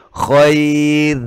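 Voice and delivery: khair ending on a light r; thin r in khair. Shown as a demonstration. Teacher showing the thin r in khair again. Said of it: "Kalau dibaca tipis".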